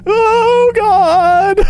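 loud high laugh of relief; relieved laughing. Real, not acted. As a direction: laugh off the fright. Relief after the scare.

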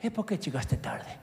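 a hint of a stern Italian boss. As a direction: question the latecomer. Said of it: "jefe italiano que me dice". (un toque de jefe italiano severo)

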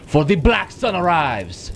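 a hint of a grand game villain; lightly voiced villain. Boss addressing the luchador, lightly voiced villain. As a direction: read it as a menacing boss, lightly.

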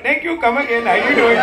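lightly imitated Indian accent. Comic repeating an audience member's greeting, imitated Indian accent. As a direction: mimic his Indian accent. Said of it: "I fucking love your accent".

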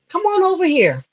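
mild retold beckoning call; neighbor calling over. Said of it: "and my neighbor said".

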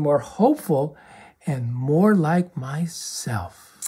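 soft, slow, breathy relief; whispered relief after being helped; hopeful whisper. Acted. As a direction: let it out like a weight lifted. Calming down, hopeful.

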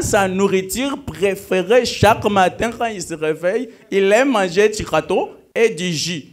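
put-on French with a light Luba accent; accent luba en français. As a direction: speak French the way they do in Mbujimayi. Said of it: "Let me start with the French".

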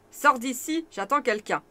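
voix de sorcière caverneuse légère. Acted. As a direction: ordre sombre et sec. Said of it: "d'une voix caverneuse". (la sorcière chasse Barnabé, voix caverneuse)

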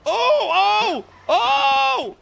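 shouted, startled oh oh oh; excited shout. Real, not acted. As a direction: yell out in sudden excitement. Reacting to taser roulette.

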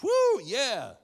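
high, loud party whoop; mock cheer. Preacher whooping like a wedding guest.

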